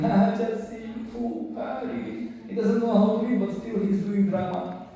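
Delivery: lightly acted scoffing at the reader; mocking onlookers. Onlookers laugh at the illiterate reader, lightly mocking. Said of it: "everybody laughing at him".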